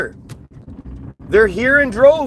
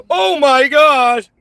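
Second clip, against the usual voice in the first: slow, higher-pitched fake astonishment; mock shock; 5 semitones higher, 4 dB louder, slower than usual. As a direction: stretch it out in sarcastic disbelief. Feigned shock, openly sarcastic.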